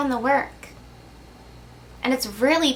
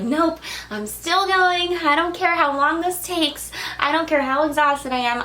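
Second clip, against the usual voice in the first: stubborn climber; 4 semitones higher than usual. Retold or imitated. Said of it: "You were like".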